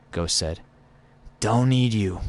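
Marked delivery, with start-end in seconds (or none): 1.4-2.2 louder, higher brush-off; curt Drifter voice; Drifter impression. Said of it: "I'm gonna do my Drifter impression".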